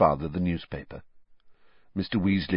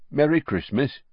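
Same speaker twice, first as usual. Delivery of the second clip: vague; 5 semitones higher than usual. A narrator's reading. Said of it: "waved them off with a vague".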